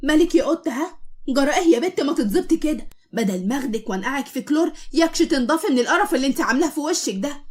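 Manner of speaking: furious scolding. Acted. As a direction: lash out in jealous rage. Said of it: "بكل غيظ ونرفزه".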